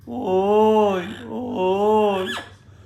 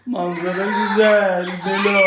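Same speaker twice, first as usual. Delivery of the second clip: laughing; 6 dB louder than usual. Real, not acted. Father repeats, laughing loudly.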